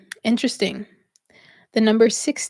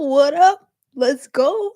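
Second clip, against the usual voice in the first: louder and higher, laughing through the hype call; hyped mock cheer; 5 semitones higher, 6 dB louder, much slower than usual. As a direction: hype yourself up like a playful cheerleader.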